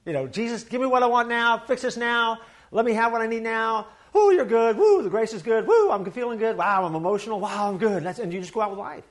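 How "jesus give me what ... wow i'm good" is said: hammed-up eager worshipper, a bit louder; mock the excited demanding believer; mock quick-fix believer. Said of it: "we want the quick fix Jesus".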